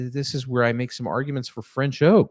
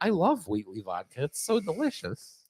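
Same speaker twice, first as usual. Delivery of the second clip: sarcastic; 5 semitones higher, 4 dB quieter than usual. Pretend. Mock Wheatley fan.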